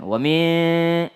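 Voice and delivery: WA MIN with the hum cut short; rushed. Shown as a demonstration. Teacher showing a too-quick wa min, clipped short. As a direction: hurry through WA MIN.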